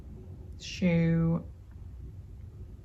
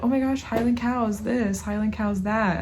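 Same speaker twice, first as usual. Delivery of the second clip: higher-pitched imitation of gushing fans; mock hype; 3 semitones higher, 4 dB louder than usual. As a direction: mimic everyone hyping it up. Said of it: "hyping these things up".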